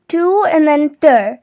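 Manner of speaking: "two" and "ter" as separate syllables; syllable breakdown. Shown as a demonstration. Teacher breaks down the word, "two" and "ter" sounded apart. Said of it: "there are two syllables in this word".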